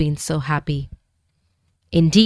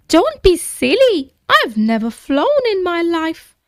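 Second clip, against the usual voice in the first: timid dragon voice; 10 semitones higher than usual. A narrator's reading. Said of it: "replied the dragon".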